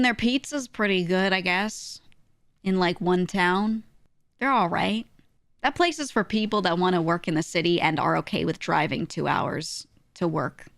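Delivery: usual speaking voice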